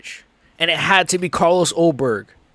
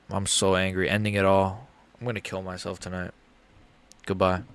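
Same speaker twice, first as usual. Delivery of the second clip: mock despair; 8 semitones lower, 8 dB quieter than usual. Real, not acted. Mock despair after the loss.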